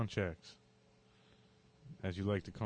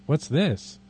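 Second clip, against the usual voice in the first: puzzled question; 6 semitones higher, 11 dB louder than usual. Acted. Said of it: "he asked".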